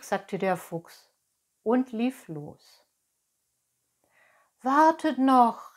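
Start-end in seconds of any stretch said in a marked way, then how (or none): 4.6-5.8 high, loud puppet cry; calling out. Acted. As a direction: call after them to stop. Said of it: "rief Pinocchio".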